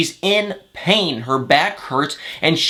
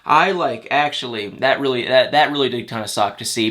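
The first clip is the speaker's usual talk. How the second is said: low energy; 3 semitones lower than usual. Real, not acted. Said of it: "I'm sorry my energy just got so low".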